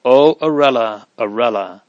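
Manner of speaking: anguished cry that collapses to a sob; a boy's grief spilling over, loud then sinking; mild narrated sobbing over a lost friend; breaking down. A narrator's reading. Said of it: "the boy fairly broke down and sobbed aloud".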